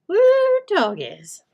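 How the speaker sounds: a light playful Texas twang; mock Texas drawl. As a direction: tease it like a Texan, lightly. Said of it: "Do you say".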